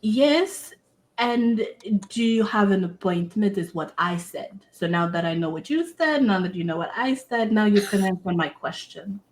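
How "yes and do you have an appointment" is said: a hint of a stern old receptionist peering over her glasses; dry and no-nonsense, the old woman stares at you over her glasses. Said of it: "looks over her glasses at you and she goes".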